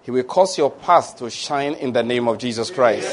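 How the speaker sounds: measured, solemn benediction; deliberate prayer cadence; pastoral prayer. Real, not acted. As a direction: pronounce a scripture blessing in even phrases. Continues benediction.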